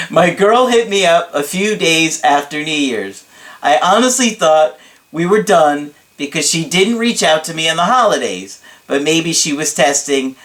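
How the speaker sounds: emphatic, lightly hammed-up storytelling; dramatic client impression. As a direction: recount it with mock drama. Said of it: "this is hard to keep up in his voice".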